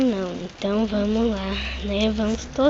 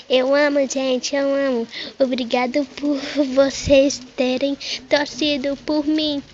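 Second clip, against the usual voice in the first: happy yay; 4 semitones higher, 4 dB louder than usual. Pretend. Voicing the recovered pet.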